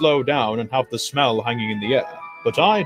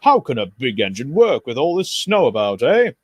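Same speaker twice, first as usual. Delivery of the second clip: indignant grumble; 5 dB louder than usual. Acted. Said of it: "he grumbled".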